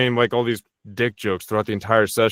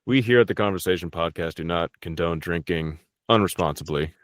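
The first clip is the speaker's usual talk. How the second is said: measured, lower-pitched sponsor read; mock announcer disclaimer; 3 semitones lower than usual. Podcast guest giving joke drinking disclaimer, as a formal announcer. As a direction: deliver a formal public-service notice, tongue in cheek.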